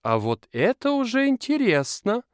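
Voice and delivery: high excited shout; sudden shout. A narrator's reading. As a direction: call it out suddenly. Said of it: "внезапно кричит Эда".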